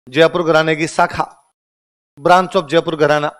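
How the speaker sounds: slow, word by word for the class to write; slow dictation. Shown as a demonstration. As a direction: dictate it clearly so students can note it down.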